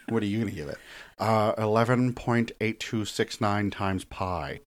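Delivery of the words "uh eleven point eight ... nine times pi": slow, precise nerdy number-reciting; nerd voice. Retold or imitated. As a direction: drawl the digits like a know-it-all. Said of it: "that's your nerd voice".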